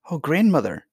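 put-on high, startled child's cry; dismayed exclamation. A narrator's reading. Princess seeing the ball thrown into fire, dismayed. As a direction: exclaim it, swooping up then falling. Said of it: "exclaimed Irene".

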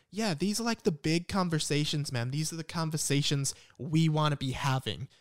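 earnest woke American dude, lightly put on; light American accent. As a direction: slip into a mild American accent. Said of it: "just went into an American accent".

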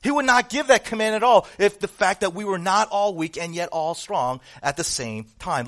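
loud, high preaching build; fervent sermon climax; full-force preaching. Acted. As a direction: drive it home from the pulpit.

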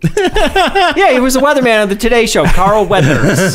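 laughing through the words; can barely talk for laughing. Real, not acted. Laughing at mistaken name.

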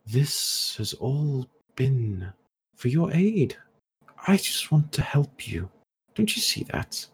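high, drawn-out insistence; manipulative villain. Acted. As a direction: plead your good intentions, pitch climbing. Villain pleads with hero in his head.

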